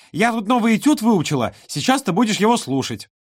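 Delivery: put-on high, bossy little girl; ultimatum tone. A narrator's reading. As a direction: order him like a tiny boss. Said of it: "ультимативным тоном заявила она".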